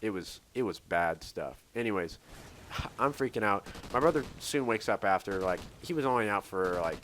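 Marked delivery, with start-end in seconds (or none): 2.2-3.0 short soft breathy sigh; quiet exhale before going on. Real, not acted. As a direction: let out a quick breath. Recalls freaking out in story.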